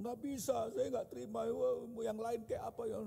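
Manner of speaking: high-pitched mock protest; angry wife. Wife refuses husband's excuse, mock-angry high voice. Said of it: "Dia marah-marah sama saya".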